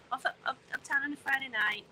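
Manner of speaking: put-on light northern English accent. Streamer recalling teenage nights uptown, playful northern accent. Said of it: "saying that in a northern accent".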